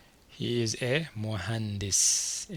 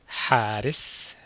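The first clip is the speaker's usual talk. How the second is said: slow, loud model pronunciation of حارس; slow model word; 5 dB louder, slower than usual. Shown as a demonstration. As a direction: say حارس slowly and loudly for learners to copy. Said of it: "What do you think حارس means?".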